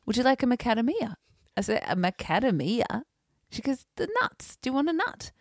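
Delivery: lightly voiced mum offering nuts, high; imitating mum. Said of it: "She says".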